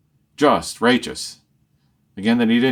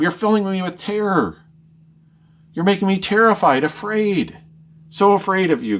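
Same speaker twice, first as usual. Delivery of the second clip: pleading Job; 4 semitones higher than usual. Acted. Job begs God, terrified.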